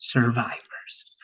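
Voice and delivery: "Survivors" drawn out slowly, stress on "vi"; slow model word. Shown as a demonstration. Teacher models the word for Joanna to repeat, slowly. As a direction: stretch "Survivors" so every sound is clear. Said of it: "Let's repeat that one".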